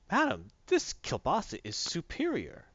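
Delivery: slow, high, grandiose declaration; put-on self-important voice, drawn out; pompous hero. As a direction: proclaim it with hammed-up grandeur. Hero's pompous praise, retold.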